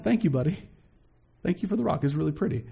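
put-on soft, low thanks to a small child; tender, hushed dad talk; gentle thanks. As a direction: humour a little boy kindly, softly. Thanking his little boy, retold.

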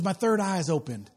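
low-key, deadpan imitation; understated mimicry of her earnest claim; imitating the girl's delivery. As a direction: quote her just as she said it. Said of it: "she said it just like that".

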